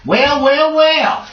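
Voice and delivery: high, drawn-out taunting greeting; sly villain drawl. Acted. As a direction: savor each well like a villain.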